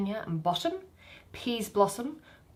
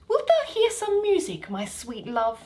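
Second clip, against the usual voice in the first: higher, lovestruck queen; doting fairy queen; 4 semitones higher, 3 dB louder than usual. Acted. Titania wooing Bottom, lightly voiced lovestruck queen. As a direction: coo it to your beloved.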